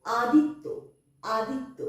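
আদিত্য said as "adittyo", with a doubled t; careful আদিত্য with the t held double; clear pronunciation demo. Shown as a demonstration. Teacher demoing the word to pupils, careful and clear. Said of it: "তয় জফলা".

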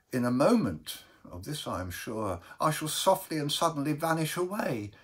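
hushed-to-rising, mildly fearful confession; anguished Baker. Acted. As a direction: recount a recurring dread earnestly.

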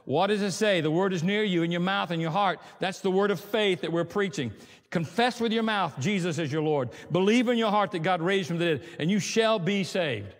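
deliberate Bible reading; scripture reading. Acted. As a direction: read the verse like it matters.

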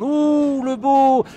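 rising excitement at the shot; excited sports commentary. Real, not acted. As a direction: lift the voice for the strike. Shot on goal, live call.

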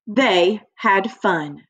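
They had fun said slowly, word by word; careful slow read for children; slow model reading. Shown as a demonstration. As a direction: model it slowly for the class to copy. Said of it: "Everybody say that with me".

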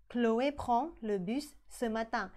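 Chloé prend le bus ce matin, slow with "prend" clear; slow repeat. Shown as a demonstration. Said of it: "ออกเสียงเหมือนกันคือ prends". (พูดซ้ำช้าๆ)

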